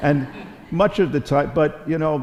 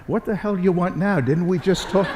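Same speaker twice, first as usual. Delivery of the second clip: mock annoyed; 7 semitones higher than usual. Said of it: "I said something like".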